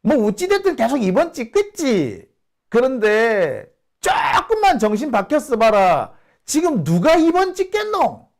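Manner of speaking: high, emphatic Busan dialect rant; Busan friend. Retold or imitated. Friend scoffing at old voters, high Busan dialect. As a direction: scoff like a fed-up Busan local. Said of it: "그러면서 하는 얘기가".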